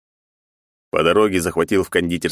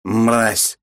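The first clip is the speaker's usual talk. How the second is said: put-on drunken shout; 4 semitones higher than usual. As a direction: blurt it out drunk. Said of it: "пьяно выкрикнул Кольс".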